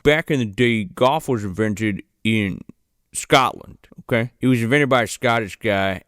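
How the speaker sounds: lightly put-on explainer voice, stretched at phrase ends; mock golf-facts presenter. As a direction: play a hokey pop-up trivia host. Acts the pop-up golf facts presenter.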